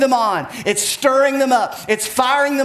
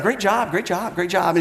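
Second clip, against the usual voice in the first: careless rote praise; 3 semitones lower than usual. Shown as a demonstration. Preacher mocking thoughtless praise, rattled-off throwaway "great job". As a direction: toss out the praise on autopilot, mind elsewhere. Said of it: "It's just like we're not even thinking about it".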